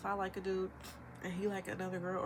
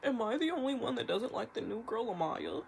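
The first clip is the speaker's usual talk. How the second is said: mocking TikTok voice; 3 semitones higher, 3 dB louder than usual. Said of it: "making videos saying".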